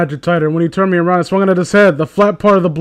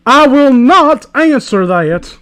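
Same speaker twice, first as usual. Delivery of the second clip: slow, pompous refusal; pretentious; 6 semitones higher, 3 dB louder, slower than usual. Acted. Fanfic hero refusing the villain, slow and pompous. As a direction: refuse like a snob. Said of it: "You sound like a pretentious twat".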